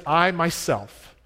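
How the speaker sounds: "I myself" drawn out slowly for emphasis; slow, weighted "I myself"; emphatic I MYSELF. Shown as a demonstration. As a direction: lean hard on "I myself". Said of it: "It's an emphasis that Paul says".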